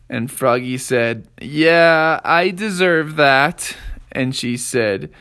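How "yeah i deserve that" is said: put-on resigned kid. A narrator's reading. Kid accepting punishment.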